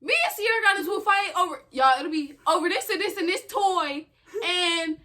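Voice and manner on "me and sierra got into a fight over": tattling to mama. Retold or imitated. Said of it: "She used to be like".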